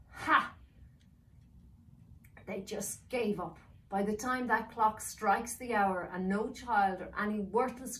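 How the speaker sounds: put-on villain sneering at the children; villain gloating over the clock.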